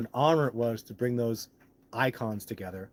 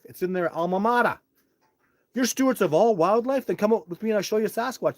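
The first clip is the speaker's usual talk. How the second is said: retold heated argument; 9 semitones higher, 7 dB louder than usual. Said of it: "I said".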